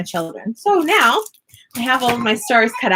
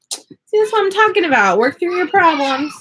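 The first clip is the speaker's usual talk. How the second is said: imitating herself; 6 semitones higher, 3 dB louder than usual. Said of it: "I'm like".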